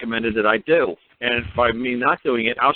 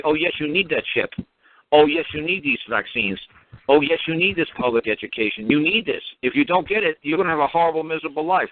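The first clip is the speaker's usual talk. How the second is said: higher, sing-song mock of a condescending official; 3 semitones higher than usual. Government officials mocking a man who refuses their benefits, sing-song mock. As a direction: sneer it like a know-it-all bureaucrat. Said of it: "And they're gonna mock you".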